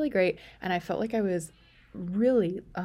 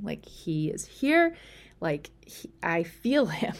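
urgent announcement; 4 dB louder, slower than usual. Retold or imitated. Announcing baby is coming.

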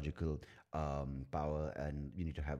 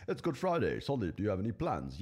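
high, louder burst of mock cheer; put-on eager chirp; chirpy mock outburst; 4 semitones higher, 4 dB louder than usual. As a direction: pipe up suddenly, high and perky. Imitates reader waking up chirpily.

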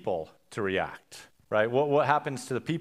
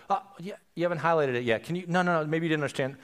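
quick, lightly theatrical trial lawyer; mildly dramatic lawyer; 2 semitones higher, much faster than usual. Acted. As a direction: feign surprise at a witness's failure. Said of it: "you'd be a little dramatic".

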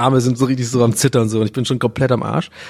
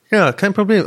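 higher, slipping out of the director voice; the casting director said too high by mistake; forgotten director voice; 8 semitones higher than usual. Acted. Casting director reassures the candidate, pitched higher. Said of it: "ich hab die Stimme von dem Casting-Direktor vergessen".

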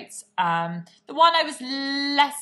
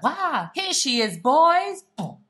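mock announcer heralding a glamorous arrival, louder and higher; a hammed-up grand entrance shout; showy entrance call; 8 semitones higher, 7 dB louder, much slower than usual. Announcing her new hair to the boys, hammed-up showbiz call. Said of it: "it's not too much like".

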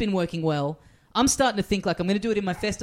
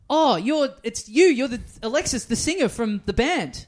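higher-pitched, excited recognition; starstruck fan; 5 semitones higher than usual. Retold or imitated. Fan to the man he takes for the band's singer, starstruck. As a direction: imitate a thrilled fan spotting a star.

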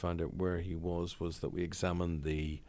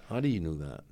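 "How do you know that" again, louder and punchier; louder surprise; 2 semitones lower, 4 dB louder than usual. Retold or imitated. Eamon amazed Ferguson knows his address, louder. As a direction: repeat it louder, astonished. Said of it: "I said".

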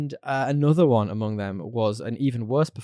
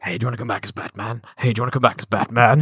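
quick nagging question, building louder; mock pestering; 5 dB louder, faster than usual. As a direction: pester him eagerly, lightly acted. Voicing someone pestering Bale.

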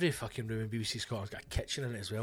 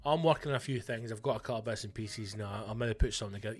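vague; 2 semitones lower, faster than usual. Retold or imitated. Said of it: "you say very vaguely".

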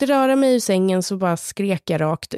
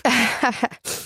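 nervous laugh; 4 semitones higher than usual. Real, not acted. Laugh after hard confession.

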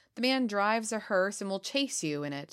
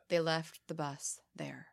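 spooky whisper; 4 dB quieter, slower than usual. Acted. Spooky legend ending.

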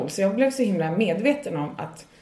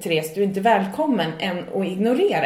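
higher, louder, laughing exasperation; frustrated rant; 5 semitones higher, 8 dB louder than usual. Retold or imitated. To comedy clubs ignoring booking emails, a laughing frustrated rant. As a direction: vent it, half laughing. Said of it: "Jag blir så frustrerad".

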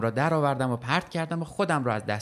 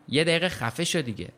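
higher-pitched, contained narrated yell; irritated yell; 5 semitones higher than usual. A narrator's reading. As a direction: yell to silence a pestering son. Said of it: "داد زدم". (داد زدن از سر کلافگی)

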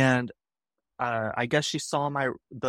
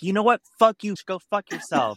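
retold angry outburst, higher and louder; going off; 7 semitones higher, 4 dB louder than usual. Candidate cursing out the rude recruiter, retold angry outburst. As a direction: re-enact blowing up before hanging up. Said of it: "went off on her".

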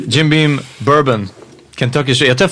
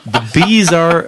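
put-on smooth southern accent; 3 semitones higher than usual. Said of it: "Lee has a smooth ass accent".

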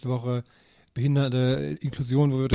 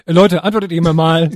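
whiny demand; 3 semitones higher, 10 dB louder than usual. Retold or imitated. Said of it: "aber dann so".

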